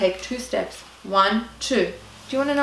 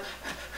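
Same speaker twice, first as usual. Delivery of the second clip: imitated panicky puff of breath; labour-style breathing; 17 dB quieter than usual. Traveller panicking behind the departure wall, mock labour breath. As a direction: puff out as if about to give birth. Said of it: "breathing like I was about to give birth".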